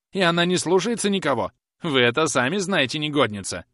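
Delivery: высокий, громкий ядовитый тон; язви, кивая на служанку; язвительно. A narrator's reading. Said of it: "язвительно продолжала миссис Пипчин". (язвительная старуха жалуется хозяину на служанку)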